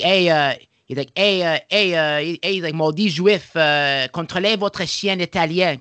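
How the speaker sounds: hammed-up jeering insult; imitating rival coach. Rival coach taunting a Jewish coach, in a high mocking jeer.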